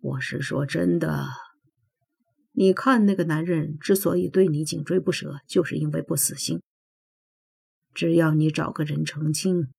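put-on subdued older man talking her round; a hint of the godfather, persuading in an easy voice; lightly voiced godfather, earnest. Godfather urges her to find a husband, lightly voiced coaxing.

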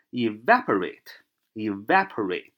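slow "evaporate", stressed on the "va"; stress on second syllable. Shown as a demonstration. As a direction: say "evaporate" slowly, leaning on "va". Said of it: "重音在Y那儿". (慢读evaporate，重音落在va上)

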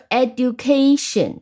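"education" stressed on the syllable ca. Shown as a demonstration. Teacher gives an example of the rule, "education" stressed on ca. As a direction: say "education" leaning on cation. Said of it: "它重音是在cation".

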